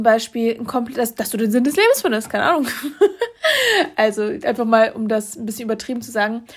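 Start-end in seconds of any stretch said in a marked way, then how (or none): 2.7-3.9 high laugh. Real, not acted. Laughs at exaggeration.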